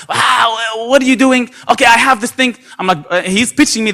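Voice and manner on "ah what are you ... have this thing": annoying Arab caller. Retold or imitated. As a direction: ham up the pushy caller a little. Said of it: "with his Arab annoying".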